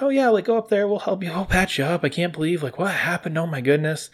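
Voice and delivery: a sweet local fussing over a wounded hero; caring townsperson. Retold or imitated. Townsfolk patching up the hero, high and fussing. Kind townspeople offer to help.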